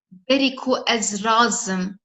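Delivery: slow, spelled-out reading of Berî ku ez razim; slow repeat. Shown as a demonstration. Teacher repeats Berî ku ez razim slowly for learners. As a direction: draw out Berî ku ez razim word by word. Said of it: "repeats the sentence slowly".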